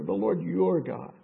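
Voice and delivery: "the Lord your God" with weight on "Lord" and "your"; stress on your God. Shown as a demonstration. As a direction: point out "your God" by leaning on it. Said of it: "Notice the words he uses there".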